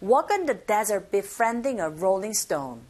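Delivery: "Walk" punched, "on the" linked and light; slow model reading, stressing "desert", "befriending", "rolling stone"; stressed content words. Shown as a demonstration. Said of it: "그걸 생각하세요". ("Walk", "desert"에 강세, "on the"는 가볍게 넘기며)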